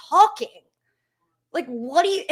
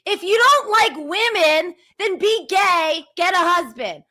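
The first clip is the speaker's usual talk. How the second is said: angry; 3 semitones higher, 3 dB louder than usual. Real, not acted. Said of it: "Yes, I am angry".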